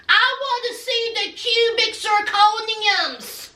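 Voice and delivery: hammed-up outrage over the price; mock indignation. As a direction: act out a fed-up fiancé balking. Acting out Jovi's outrage over price.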